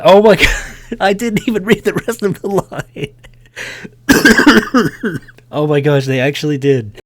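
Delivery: loud, high laughing disbelief; cracking up. Real, not acted. Player cracks up at an unexpected game line, laughing. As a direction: burst out laughing through the words.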